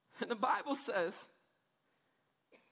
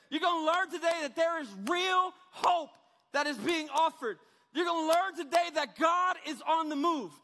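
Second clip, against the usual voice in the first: full-force preaching. Acted. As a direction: hammer every "you're gonna learn today" like a revival preacher.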